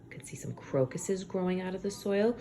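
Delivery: hushed whisper over the picture. Real, not acted. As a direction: whisper as if sharing a secret.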